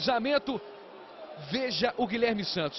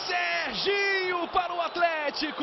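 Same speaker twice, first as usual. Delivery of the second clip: excited high call; 6 semitones higher than usual. Real, not acted. Shouted scorer call.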